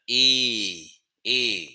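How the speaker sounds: teacher demonstrates eh; open e sound. Shown as a demonstration. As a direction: open eh again. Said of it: "This sound itself does not exist".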